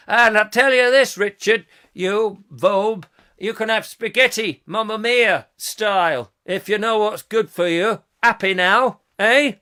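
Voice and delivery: high, blustering mock-Italian; Italian accent. Shown as a demonstration. Warning Richard about spaghetti, mock-Italian accent. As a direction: threaten in a hammy Italian accent. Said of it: "I'm gonna do an Italian accent".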